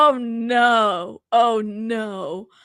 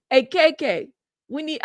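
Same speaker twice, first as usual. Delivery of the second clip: a rapper's voice; 5 semitones higher than usual. Retold or imitated. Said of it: "I could almost hear Diddy's voice in this".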